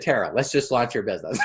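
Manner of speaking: quick, laughing repeat; laughing insistence. Retold or imitated. Coach repeats his push to Tara, fast and laughing. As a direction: rattle it off fast through a laugh. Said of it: "I, I said".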